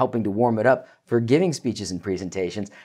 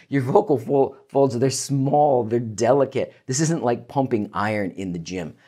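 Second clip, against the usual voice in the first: ordinary talk, nothing marked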